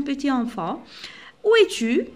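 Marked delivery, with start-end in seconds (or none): 1.4-2.1 put-on high, loud call of a mother looking for her child. Reading the mother's line to pupils, a high calling voice. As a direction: call out across the house for your child.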